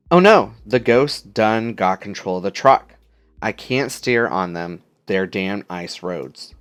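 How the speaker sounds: Southern drawl, ghost hunter panic; folksy trucker twang in mock panic; country accent. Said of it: "they just sound very country, southern".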